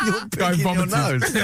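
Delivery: mock exasperated shout. Friend retells scolding the nose-picker, laughing shout. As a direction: yell it through laughter. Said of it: "It's like".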